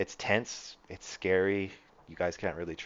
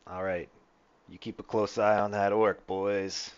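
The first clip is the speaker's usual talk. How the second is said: Manfred; 3 semitones higher, 7 dB louder than usual. Acted. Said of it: "and he's like".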